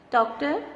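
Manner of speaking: "Doctor" read out with DOC stressed, rising at the end; stress on first syllable. Shown as a demonstration. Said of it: "notice which syllable is the stressed one".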